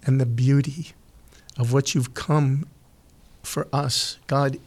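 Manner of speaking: unhurried prayer with long pauses; heartfelt prayer. Real, not acted. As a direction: speak to God sincerely, pausing between phrases. Leads a Thanksgiving prayer.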